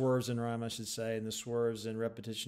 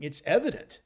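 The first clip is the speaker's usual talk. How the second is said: EVIDENT raised and louder, rising; stressed evident; 6 semitones higher, 7 dB louder than usual. Shown as a demonstration. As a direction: lean on the word evident with a lift. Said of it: "It's evident the art".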